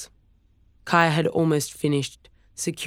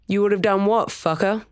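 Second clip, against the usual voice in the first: higher and louder, spitting the insult; furious shout; 6 semitones higher, 3 dB louder than usual. A narrator's reading. Storm sprinting at Chris, furiously shouting him down. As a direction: yell it as you charge in.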